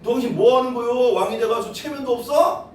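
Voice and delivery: jeer, then scold him outright; wife scorning the king's dancing; sarcastic scolding. Retold or imitated. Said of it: "막 이런 거야".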